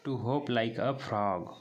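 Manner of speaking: slow, word by word; slow repeat. Shown as a demonstration. Teacher to class, repeating the line slowly. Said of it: "होप मतलब उछलना".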